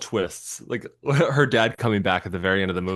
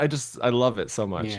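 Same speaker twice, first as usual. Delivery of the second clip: ordinary talk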